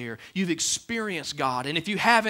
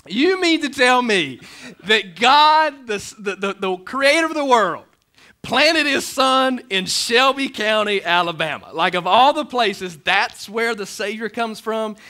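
mock disbelief; 5 semitones higher, 8 dB louder than usual. Doubter asks why God chose Shelby, loud incredulity. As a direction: pile on the disbelief, loudly.

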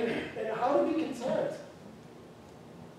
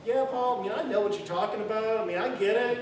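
smug agreement; 3 dB louder than usual. Pretend. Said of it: "I can't read this passage here and, and go".

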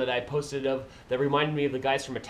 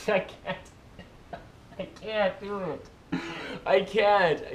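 real helpless laughter, higher pitch; breaking up laughing; 4 semitones higher, slower than usual. Real, not acted. Vlogger failing the Canadian accent, cracking up laughing. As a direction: give up through laughter.

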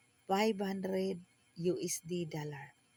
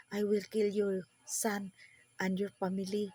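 retold angry threat; 2 semitones higher, 4 dB louder than usual. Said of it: "Nagalit siya".

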